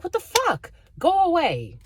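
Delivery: high, loud burst of exasperation; exasperated outburst. Acted. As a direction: throw it out high and loud to drive them off.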